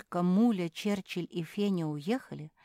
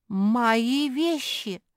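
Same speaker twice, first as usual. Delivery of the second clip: loud, high, very drawn-out cry; distressed shout; 7 semitones higher, 7 dB louder, much slower than usual. A narrator's reading. Зефирка running into her wrecked workshop, crying out. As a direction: wail it out over your scattered things. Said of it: "закричала Зефирка".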